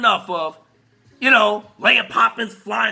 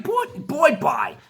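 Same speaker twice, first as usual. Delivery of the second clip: laughing dismissal; 4 semitones higher, slower than usual. Retold or imitated. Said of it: "looking at you like".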